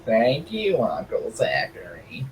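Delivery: put-on creepy sing-song thanks. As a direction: draw out a creepy thank-you, sinking into a whisper. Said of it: "That's really creepy when you say it like that".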